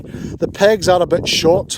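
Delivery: loud over howling wind; shouting over wind. Real, not acted. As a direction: push your voice over the gale. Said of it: "hear me over this wind".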